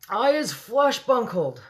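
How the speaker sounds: slow, high, loud roar; giant's roar. A narrator's reading. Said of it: "roared the flesh lump eater".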